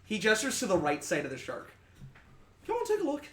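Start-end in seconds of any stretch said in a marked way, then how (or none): 2.7-3.2 inviting sea captain. Acted. Sailor NPC.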